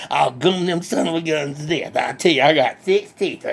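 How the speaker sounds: lightly voiced country hick, cheerful and boastful; redneck Bubba. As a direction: play a proud backwoods redneck bragging. Bubba answers.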